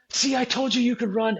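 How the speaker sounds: mock cheerful friend at the finish; teasing friend. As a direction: call it out from the corral.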